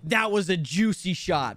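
slow, measured sample voice line; deliberate announcer-style read. Shown as a demonstration. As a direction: read it out slowly for a game.

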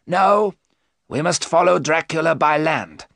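high, emphatic overruling; insistent professor. Acted. Van Helsing interrupts Arthur's plan, insistent.

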